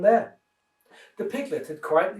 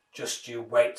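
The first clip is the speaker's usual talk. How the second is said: low menacing snarl; a lowered wolf snarling a threat; 4 semitones lower than usual. Acted. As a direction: threaten him through the teeth. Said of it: "snarled the wolf".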